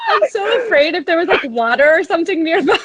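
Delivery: high-pitched tearful imitation; mock fear. Singer imitates host being afraid of water, high mock-tearful voice. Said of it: "You're like".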